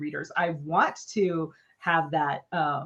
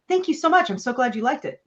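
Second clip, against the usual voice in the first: higher-pitched, gushing commercial thanks; commercial-sounding thanks; 5 semitones higher than usual. Retold or imitated. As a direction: thank them like an ad read. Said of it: "you sound like a commercial".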